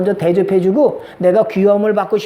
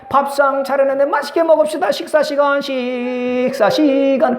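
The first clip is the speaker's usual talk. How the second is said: cheerful meal call; 3 semitones higher than usual. Shown as a demonstration. Pastor showing a friendly call to dinner, sing-song. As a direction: invite them kindly to the table. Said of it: "그러면 좋아요".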